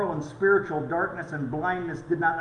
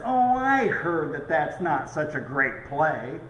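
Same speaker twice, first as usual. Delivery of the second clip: a hint of a know-it-all mother-in-law, pitched up; lightly voiced mother-in-law; 5 semitones higher, 4 dB louder than usual. Mother-in-law spoiling the mystery for Ralph, lightly voiced. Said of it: "And she says".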